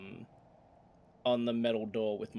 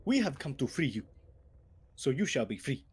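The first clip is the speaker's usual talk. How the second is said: orc chief proclamation; 3 semitones higher than usual. Acted. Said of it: "speaking to packed hallway".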